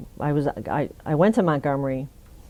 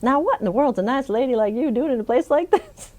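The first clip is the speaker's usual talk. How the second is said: governor; 8 semitones higher than usual. Retold or imitated. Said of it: "and he says".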